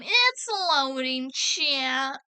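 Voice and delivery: slow, playful mock know-it-all; lightly put-on "um, actually" voice. Shown as a demonstration. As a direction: draw it out like a hammed-up pedant. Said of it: "um, actually voice in a way".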